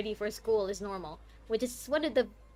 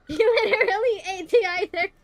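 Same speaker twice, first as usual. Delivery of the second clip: indignant outcry; 9 semitones higher, 9 dB louder than usual. Real, not acted. Indignant at character.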